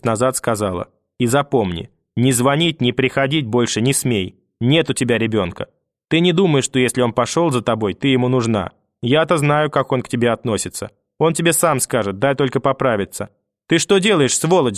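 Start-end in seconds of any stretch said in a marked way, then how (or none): 1.2-13.3 lightly voiced stern old woman; grandmother warning. Grandmother warns the mother off, a hint of stern old woman. 13.7-14.8 grandmother shouting. Acted. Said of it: "закричала вдруг бабушка".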